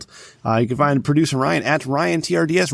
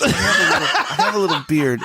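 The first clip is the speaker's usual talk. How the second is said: laughing; 4 semitones higher than usual. Real, not acted. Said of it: "laughing while saying".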